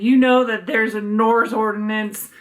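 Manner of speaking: put-on lightly slurred drunk voice; a hint of tipsy slurring; drunk neighbor. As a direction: imitate a wasted woman mangling her words. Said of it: "like, just wasted".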